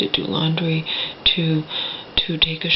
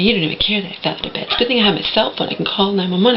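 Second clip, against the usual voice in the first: rapid-fire imitation of a complaint; mock accusing complaint; much faster than usual. Mother complaining to daughter after falling out of bed, rapid imitated reproach. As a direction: rattle it off reproachfully, as if quoting someone.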